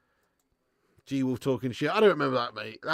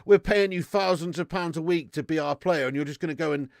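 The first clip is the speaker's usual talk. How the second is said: mock club boss; 3 semitones higher, 6 dB louder than usual. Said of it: "the players' club's gonna be like".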